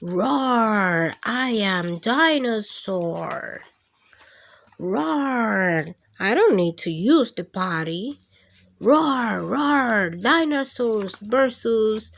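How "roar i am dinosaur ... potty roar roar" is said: stomp out the roars like a little dinosaur. Acted. Reading to kids, dinosaur roars proudly at the party. Dinosaur roaring in picture book.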